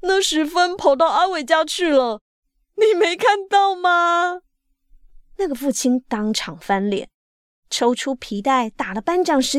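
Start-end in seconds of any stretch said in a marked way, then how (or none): 0.0-4.4 high, loud storyteller's quote; loud retort. A narrator's reading. Character in the story asking didn't you see, loud retort. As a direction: call it out high, stretching the final question.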